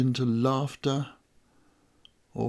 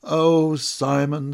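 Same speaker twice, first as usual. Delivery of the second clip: fond teasing; 2 semitones higher, 6 dB louder, slower than usual. Acted. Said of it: "It's one of his".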